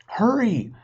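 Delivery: put-on high, loud girl's shout; shouted warning. Sister warns her brother of the dinosaur, shouting. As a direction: yell it in alarm. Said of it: "shouted Annie".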